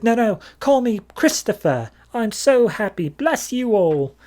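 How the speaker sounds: high, beaming voice, slowing down at the end; overjoyed release. Retold or imitated. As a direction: gush like a freed man thanking everyone. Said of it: "he's like".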